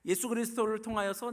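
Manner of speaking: high, loud, proclaiming; emphatic declaration. Real, not acted. Preacher repeating through whom God loves, emphatic. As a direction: lift it up and proclaim it. Same answer repeated with raised force.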